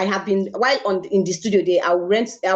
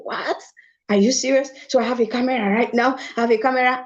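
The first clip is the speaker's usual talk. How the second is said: amazed disbelief; 3 semitones higher than usual. Real, not acted. Disbelief at getting the camera.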